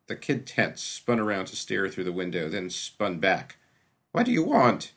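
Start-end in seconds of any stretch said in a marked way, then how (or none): 4.1-4.9 a loud, high, desperate cry; sudden desperation. A narrator's reading. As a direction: blurt it out, cornered and desperate. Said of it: "he said in sudden desperation".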